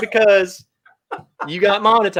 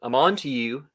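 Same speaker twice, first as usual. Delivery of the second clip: low, quiet mock threat; mock suspicious; 3 semitones lower, 6 dB quieter than usual. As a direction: warn with playful menace. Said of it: "trying to sabotage me".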